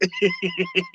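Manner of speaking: squeaky high-pitched burst of laughter; a sudden high giggle breaking out; real high laugh. Real, not acted. Laughing at Porky Pig joke.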